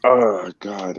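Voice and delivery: talking while blowing nose; words between nose blowing. Real, not acted. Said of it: "I'm blowing my nose".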